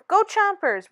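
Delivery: rally the school team; cheering. Acted. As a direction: principal cheering the Chompers on. Principal cheers on football team.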